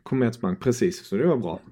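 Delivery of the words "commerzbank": "Commerzbank" said as a model pronunciation; pronunciation demo. Shown as a demonstration. Guest answers how to pronounce the arena, demonstrating the name. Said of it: "hur uttalar man den?".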